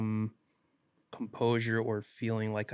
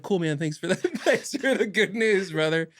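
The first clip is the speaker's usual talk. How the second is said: sarcastic thanks; 8 semitones higher, 6 dB louder than usual. Retold or imitated. Sarcastic thanks to scary news.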